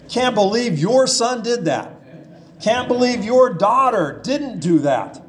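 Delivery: mild parental blame, leaning on "your"; stress on YOUR. Acted. Parents arguing over a child, pushing blame with "your". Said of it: "heard your parents argue like that".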